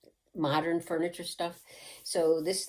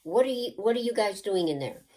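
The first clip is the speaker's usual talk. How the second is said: higher, louder call from the kitchen; mother yelling; 4 semitones higher, 4 dB louder than usual. Retold or imitated. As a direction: yell in from the next room like a suspicious mother. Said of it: "she yelled in".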